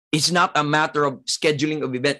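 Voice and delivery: same line again, fast and brisk; quick repeat. Shown as a demonstration. Preacher repeating his point fast to the congregation. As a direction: rattle it off quickly, pressing the point. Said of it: "repeated at once".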